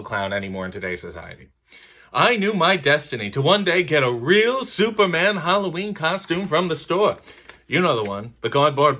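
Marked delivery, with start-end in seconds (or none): 2.1-7.2 light stand-up voice, a bit higher, slowing at the end; a touch of Seinfeld's setup rhythm. Retold or imitated. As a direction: tell it like a dreamy kid's wish. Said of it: "Jerry is simply making an observation".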